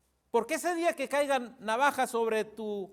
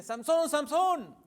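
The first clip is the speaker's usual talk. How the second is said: high, drawn-out warning call; acted cry of alarm; 5 semitones higher, slower than usual. Dalila wakes sleeping Samsón as enemies come, mock alarmed cry. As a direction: call out the warning, stretching each word. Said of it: "grita y dice".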